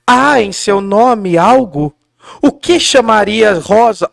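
drawn-out stage declaiming, mildly voiced; Juliet reading. Juliet musing on Romeo's name, slow and theatrical. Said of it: "Aí a Julieta assim".

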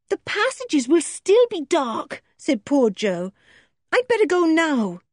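put-on a frightened girl desperate to help; girl pleading through the door; distressed young girl. Joe voiced.

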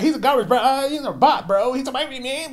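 put-on very high, whining dirt-bike kid voice; mocked gamer kid. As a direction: ridicule a bratty kid in a squealing pitch. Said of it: "these new kids all sound the fucking same".

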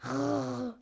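a mild rolled-r dog growl; threatening growl. Acted. The dog Awuff growls at the organ-grinder, a light threatening growl. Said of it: "knurrte drohend".

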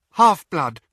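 high frightened voice; frightened but convincing; terrified. Acted. Hermione answers afraid.

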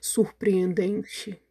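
very slow, drawn-out wonder; astonished. Acted. Gruffalo astonished at the fleeing animals, very slow wonder. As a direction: stretch the word in awe. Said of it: "falou espantado".

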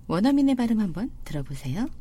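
usual speaking voice

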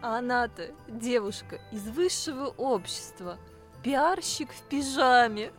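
mock-grand storyteller, slowing for the punchline; fairy-tale storytelling. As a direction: build up the heroine with playful pomp. Improvised fairy-tale narration.

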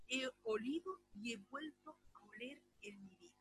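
whispered in wonder; breathless whisper; awed whisper. Real, not acted. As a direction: hush it as if still inside the memory. Awed memory of the scent.

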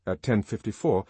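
ordinary delivery

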